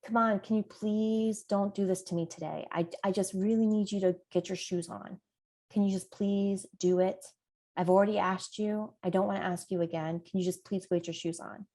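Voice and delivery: put-on a tired parent begging a child to put shoes on, soft and pleading. Shown as a demonstration. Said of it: "I'm gonna say things like".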